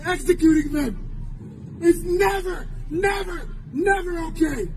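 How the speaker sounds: crying, voice breaking; fighting back tears, insisting; choked up. Real, not acted. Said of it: "I'm sorry I'm getting emotional".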